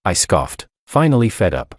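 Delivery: plain reading voice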